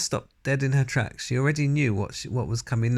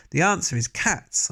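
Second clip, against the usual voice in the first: excited shout; 7 semitones higher than usual. A narrator's reading. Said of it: "I shouted".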